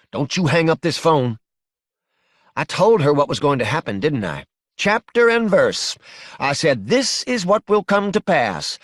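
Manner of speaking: scolding, emphatic mother on the phone; indignant mother. Acted. Mother berating her son-in-law over the phone, indignant. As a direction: lay down the law, pitch lifted. Angry mother answers late-night phone call.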